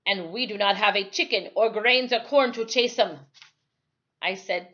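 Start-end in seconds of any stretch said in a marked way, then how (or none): 0.1-3.3 put-on dark old islander. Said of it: "he said darkly".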